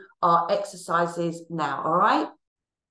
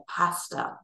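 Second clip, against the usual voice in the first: whispered; 3 semitones lower, 4 dB quieter than usual. Shown as a demonstration. Mouthing the sign word.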